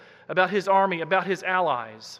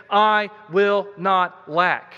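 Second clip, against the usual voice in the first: "I will not lack" slow and louder, each word firm; confident vow; 5 dB louder, much slower than usual. Retold or imitated. Preacher paraphrasing David's vow, slow and emphatic. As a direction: state it like a promise nothing can break. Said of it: "David is saying".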